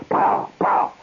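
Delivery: two sharp mouth-made cracks; imitated whip cracks. Storyteller imitating the tamer's whips, sharp cracks. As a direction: crack out each POW like a whip. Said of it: "he has about seven whips".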